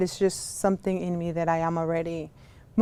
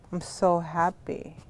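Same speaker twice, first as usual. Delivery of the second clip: low, soft, glum "happy"; happy words muttered flatly; mismatched happy; 3 semitones lower, 6 dB quieter than usual. Shown as a demonstration. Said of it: "It doesn't match".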